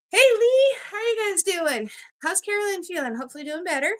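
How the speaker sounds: a bit winded while talking; breathless from rushing around; out of breath. Real, not acted. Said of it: "I'm a little out of breath".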